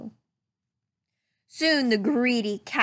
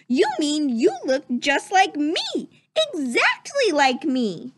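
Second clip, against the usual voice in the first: excited prince; 4 semitones higher than usual. Acted. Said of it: "cried the prince".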